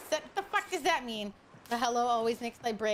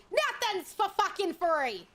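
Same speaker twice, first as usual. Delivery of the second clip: put-on New York accent; 5 semitones higher, slower than usual. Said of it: "Accents for free?".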